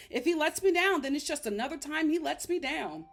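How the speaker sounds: mocking Tiffany's words. Repeating Tiffany's line back to her, mocking. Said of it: "This is how you speak".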